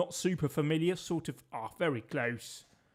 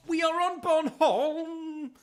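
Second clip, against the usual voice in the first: higher and louder, laughing in triumph; triumphant cry; 14 semitones higher, 6 dB louder, slower than usual. Real, not acted. Cheering to viewers on guessing the island right, excited shout. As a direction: crow it out with a laugh, slowly.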